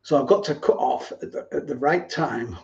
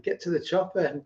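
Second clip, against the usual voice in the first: Arnold impression; 2 semitones higher, 4 dB quieter than usual. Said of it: "an Arnold impression".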